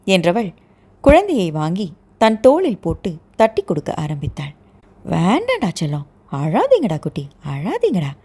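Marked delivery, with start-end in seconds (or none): 5.1-8.1 put-on soothing baby. Patting crying baby on shoulder.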